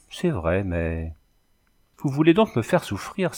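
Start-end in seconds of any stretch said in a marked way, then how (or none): 2.0-3.3 high-pitched, understated despair; desperate. A narrator's reading. Girl reproaching the carter who holds back, desperate. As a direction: plead as if wounded, voice raised in pitch. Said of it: "avec cet accent désespéré".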